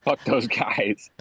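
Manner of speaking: slow, whispered curse; whispering. Real, not acted. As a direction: whisper it with contempt, slowly. Dismissing the interviewees.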